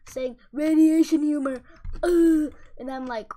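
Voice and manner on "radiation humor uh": loud, laughing blurt of the catchphrase; cracking up while blurting it; laughing quote. Retold or imitated. Friend Andre laughing his head off at the joke, loud laughing blurt. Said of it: "started laughing his head off, saying".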